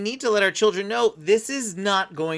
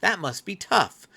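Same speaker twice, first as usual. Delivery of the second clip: empathizing; 3 semitones higher, 4 dB quieter than usual. Shown as a demonstration. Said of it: "empathize with them in that moment".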